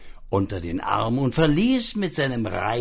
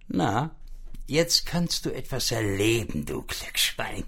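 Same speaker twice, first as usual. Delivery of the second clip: muttering to itself; 5 dB quieter than usual. Acted. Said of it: "sagte das arme Schwein zu sich selbst".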